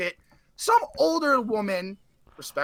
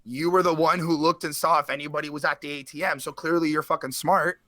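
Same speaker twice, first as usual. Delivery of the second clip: a hint of a lower, dry father voice; dad lightly voiced, mildly lower; 6 semitones lower than usual. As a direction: play dad, unimpressed, rubbing it in. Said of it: "He's like".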